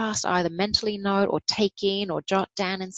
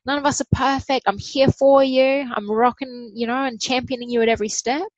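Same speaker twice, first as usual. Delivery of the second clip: higher and louder, upbeat encouragement; bright pep talk to a struggling friend; cheering a friend on; 6 semitones higher, 5 dB louder than usual. Retold or imitated. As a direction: hype up your best friend.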